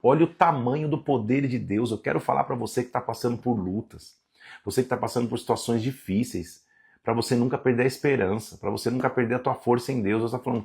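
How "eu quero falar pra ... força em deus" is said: tender encouragement. Real, not acted. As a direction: comfort those who are struggling. Pastor encouraging struggling listeners.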